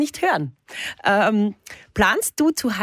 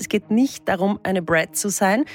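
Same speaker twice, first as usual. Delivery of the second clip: mock solemn horoscope read over music. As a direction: deliver the absurd horoscope like a serious astrologer. Reads the horoscope machine's result.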